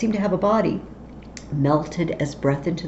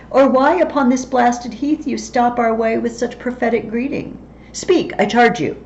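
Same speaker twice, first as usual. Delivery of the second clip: higher and louder, urgent command; commanding Macbeth; 5 semitones higher, 5 dB louder than usual. Acted. Macbeth orders the vanishing witches, urgent and loud. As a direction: order them to stay and speak. Reads Macbeth demanding more.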